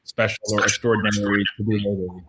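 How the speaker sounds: choppy connection dropping out; broken-up voice over a bad call; corrupted glitchy audio. Real, not acted. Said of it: "your audio is cutting out".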